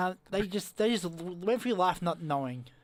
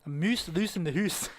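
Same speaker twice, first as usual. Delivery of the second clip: slow, rounded Canadian "oo" vowels; mock Canadian accent; slower than usual. Quoting a favourite saying, mock Canadian accent. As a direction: stretch "moose, loose, hoose" slowly, Canadian style. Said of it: "my favourite Canadian saying".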